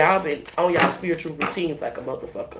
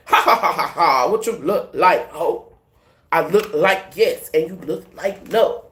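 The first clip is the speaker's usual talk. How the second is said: laughing taunt. Pretend.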